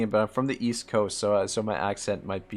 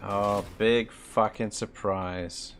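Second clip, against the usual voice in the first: sarcastic; much slower than usual. Real, not acted. Game demands more cash.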